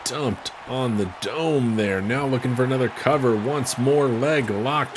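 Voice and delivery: loud, high count to the pin; excited. Real, not acted. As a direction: build to a shouted three. Three count, match ends.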